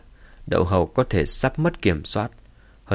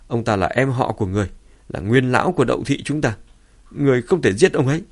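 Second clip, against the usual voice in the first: anxious, raised pleading; urgent pleading; 3 semitones higher than usual. Acted. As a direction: beg the clan head not to kill, hurrying. Frantic plea to clan head.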